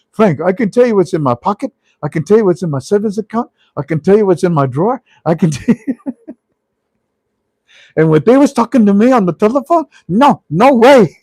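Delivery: high, loud list climbing into laughter; imitating hysterical caller. Caller telling Frank what the bank said, imitated cracking up. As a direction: mimic a man cracking up in disbelief. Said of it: "The guy's cracking up".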